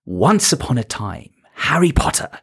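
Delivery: a light taste of reading a bedtime story; storytelling to a child. Shown as a demonstration. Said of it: "how do you talk to them?".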